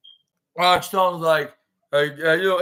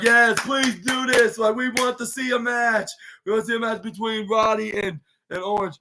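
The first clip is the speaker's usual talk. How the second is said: raised-pitch crowd pleading; eager fans imitated; 5 semitones higher than usual. Retold fans plead for match.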